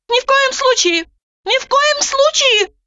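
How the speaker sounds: high, loud horrified yell. A narrator's reading. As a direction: shout it in alarm. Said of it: "завопила она".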